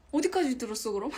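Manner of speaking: loud urgent question; loud asking. Real, not acted. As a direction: call it out loudly. Loud first take.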